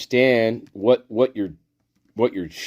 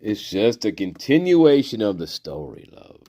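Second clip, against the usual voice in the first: soft reassurance; 4 dB quieter than usual. Pretend. Repeats it low and soft.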